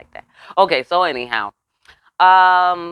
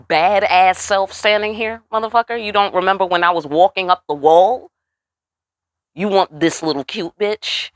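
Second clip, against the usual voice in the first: higher, louder brash boast; higher, louder mock taunt as Trinity; sassy Trinity retort; 3 semitones higher, 4 dB louder than usual. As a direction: strut it like a proud badass woman.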